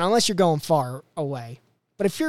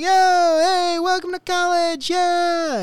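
high, slow, overexcited bro greeting; hyped upperclassman; 14 semitones higher, 6 dB louder, slower than usual. Retold or imitated. Podcaster imitates move-in helpers, high and hyped. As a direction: ham up a pumped college helper. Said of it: "they're like".

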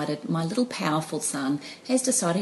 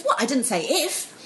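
put-on innocent child; 6 semitones higher than usual. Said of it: "And he goes".

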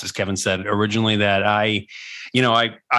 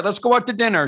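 a touch higher invitation; eager friend voice; 11 semitones higher, faster than usual. Retold or imitated. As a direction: invite them out brightly. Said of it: "everybody's like".

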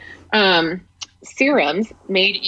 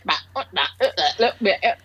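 choppy audio imitation; much faster than usual. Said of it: "but before it was like".

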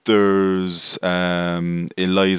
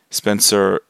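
mock-French flourish, loud and higher; bad French accent; 5 semitones higher, 9 dB louder than usual. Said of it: "he's French. No, he's not".

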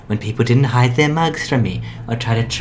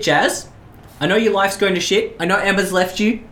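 high-pitched, pleading and fed up; high upset voice; 8 semitones higher than usual. Acted. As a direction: voice him much higher, on edge. Continues high upset character.

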